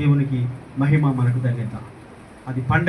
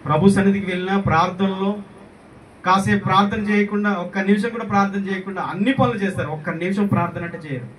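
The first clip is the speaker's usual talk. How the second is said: insistent, somewhat raised preacher's voice; reproving preaching; 4 semitones higher than usual. Real, not acted. Preacher reproving people who skip prayer, insistent preaching. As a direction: scold the congregation with mounting insistence.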